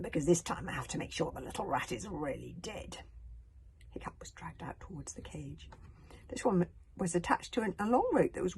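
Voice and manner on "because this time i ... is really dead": sneering. Acted. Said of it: "sneered Alvin".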